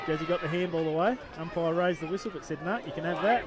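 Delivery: live play-by-play. Real, not acted. Co-commentator on a tackle and umpire's call, lifted live play-by-play. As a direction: follow the contest with rising urgency.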